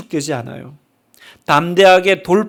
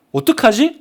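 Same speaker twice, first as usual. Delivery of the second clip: rising, fretful what-do-I-do; mock worry; 5 semitones higher than usual. Preacher voices a believer fearing God missed the train, mock worry. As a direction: ask it like a nervous passenger. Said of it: "하나님이 안 타신 거 아니야?".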